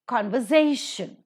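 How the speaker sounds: "Conversation" stressed on SA; stress before the suffix. Shown as a demonstration. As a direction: punch SAY in "Conversation". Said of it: "the is given the stress".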